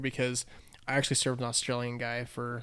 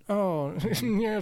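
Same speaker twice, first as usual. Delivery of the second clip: mumbling gentleman; 8 semitones higher than usual. Retold or imitated. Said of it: "we just mumbled like that".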